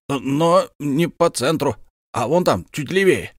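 put-on high, hearty bragging old soldier; boastful count Bekker. Count presents his comrade to his wife, high and proud. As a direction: show off your war comrade. Bekker brushes off, offers champagne.

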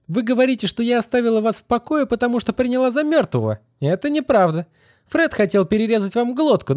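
put-on defiant girl. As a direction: spit out the contempt. Kitty's defiant confession.

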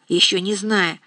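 ordinary delivery, nothing marked

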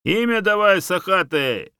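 loud, high barked order; commanding shout. A narrator's reading. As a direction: order the moose to answer. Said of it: "приказал медведь".

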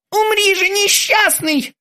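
very high, slow theatrical doom; grand threat. A narrator's reading. The terminator raises the knife over Krueger. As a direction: declaim the killing blow.

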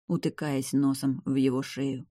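plain reading voice

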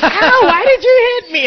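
high, loud, slow mock whine; whiny kid. Son voiced complaining loudly after being hit. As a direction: wail it like a hurt child. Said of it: "and he's like".

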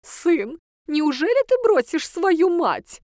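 high, slow whiny reproach; petulant mother; capricious. Acted. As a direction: whine it to guilt the son. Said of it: "капризно спросила пожилая женщина".

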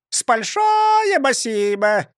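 very high, slow squeaky bird voice; parrot chirp. A narrator's reading. Parrot on shoulder thanking, chirping high.

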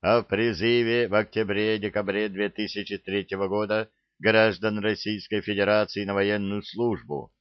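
every word clipped and even; crisp measured reading. A narrator's reading. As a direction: rap out each word crisply. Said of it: "отчеканил".

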